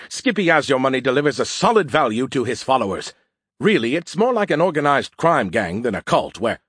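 lightly voiced snarky, self-important AI; mildly snarky sales pitch. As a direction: defend yourself with a touch of pompous snark. His regular snarky voice.

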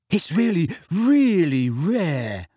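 high, drawn-out delighted boast; beaming. A narrator's reading. Neville shows his plant to friends, beaming. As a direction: savour how special it is.

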